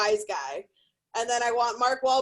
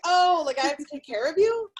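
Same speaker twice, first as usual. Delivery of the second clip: mom; 5 semitones higher, 4 dB louder than usual. Retold or imitated. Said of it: "had me and was like".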